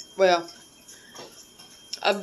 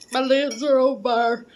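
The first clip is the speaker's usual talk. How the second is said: higher and louder, burning lips; loud exclamation; 6 semitones higher, 7 dB louder than usual. Real, not acted. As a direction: cry out that the lips burn.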